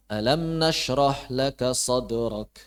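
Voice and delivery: "Alam nashrah laka sadrak" recited slowly as a plain statement, SADRAK left low; low, drawn-out recitation of "Alam nashrah laka sadrak" with no question in it; recited without questioning. Shown as a demonstration. Teacher shows students a recitation that misses the question, "sadrak" kept low. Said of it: "Itu kurang pas ... Karena pertanyaan".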